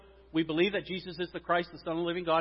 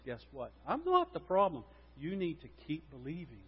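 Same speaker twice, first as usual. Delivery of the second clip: Jesus' gentle reply; 6 dB quieter than usual. Retold or imitated. Voicing Jesus answering the pastor.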